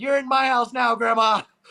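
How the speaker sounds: play-acted, loud, high-pitched shouted yell. Recounting the championships, the speaker retells yelling a favorite movie quote. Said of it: "and I just yelled".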